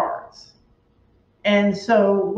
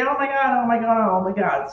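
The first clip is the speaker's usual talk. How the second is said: mock panic; 3 semitones higher than usual. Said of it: "our hair on fire going".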